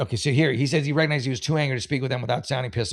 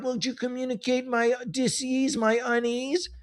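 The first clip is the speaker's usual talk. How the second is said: mocking the husband; 8 semitones higher, 6 dB quieter than usual. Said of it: "and then you're like".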